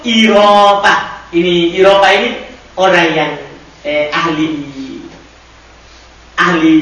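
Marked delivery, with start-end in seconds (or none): 0.0-1.2 slow dictation. Shown as a demonstration. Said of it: "teacher dictating Arabic form".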